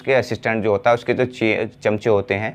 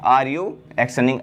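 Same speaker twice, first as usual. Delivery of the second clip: slow model question; much slower than usual. Shown as a demonstration. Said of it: "तो क्या".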